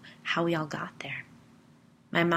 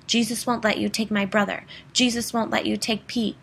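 loud and higher, a desperate cry; screaming; 5 semitones higher, 6 dB louder than usual. Retold or imitated. Boy crying out for Jesus to save his brother, loud. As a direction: shout it like a prayer flung at the demon. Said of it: "and I screamed".

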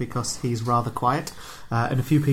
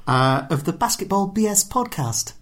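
hammed-up Cockney, pitched higher; higher, playful fake Cockney accent; mock Cockney accent; 6 semitones higher than usual. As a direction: put on a jokey London Cockney voice. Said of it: "how long I can keep this accent up".

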